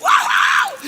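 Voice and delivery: very high, loud whoop; amazed shriek. Retold or imitated. Reacting to the doctor's revelation, amazed shriek. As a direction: shriek the wow in astonishment.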